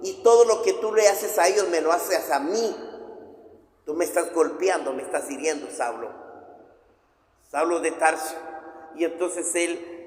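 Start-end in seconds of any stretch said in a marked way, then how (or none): 0.0-8.3 voice of Jesus. Acted. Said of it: "yo pienso que le habrá dicho".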